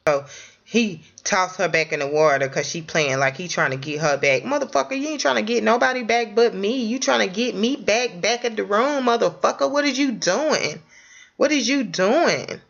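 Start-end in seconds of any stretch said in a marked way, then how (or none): 4.4-12.6 acted scolding. Acting out confronting her man.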